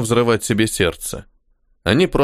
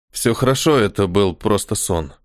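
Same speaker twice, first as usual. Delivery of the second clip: soothing; 4 semitones lower than usual. Acted. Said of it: "успокаивающе произнёс".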